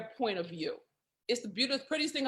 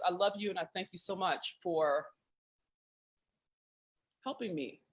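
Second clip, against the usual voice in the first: heartfelt thanks, dropping lower and softer; sincere; 4 semitones lower, 5 dB quieter than usual. Real, not acted. Host thanking her friend for helping, sincere. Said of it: "I say in all seriousness".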